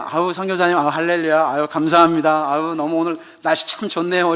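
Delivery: lightly imitated cheerful church elder; cheery gushing. Member greeting missionary an hour earlier, cheerful and gushing. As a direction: gush sweetly, all smiles and hallelujahs. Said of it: "이렇게 반응하셨던 분이".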